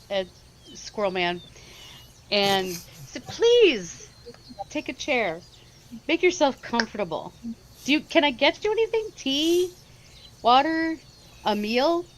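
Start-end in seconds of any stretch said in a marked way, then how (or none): 3.3-12.0 higher-pitched, smiling welcome; gracious hostess. Acted. Caro welcoming Squirrel Man to a seat, gracious and smiling. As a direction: offer hospitality with a lifted, gracious lilt. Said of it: "turn and smile graciously".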